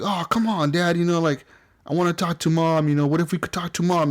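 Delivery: a hint of a boy begging his dad; pleading boy. Son begging Kratos to talk to Mom, mildly pleading. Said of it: "he's, like, all begging him".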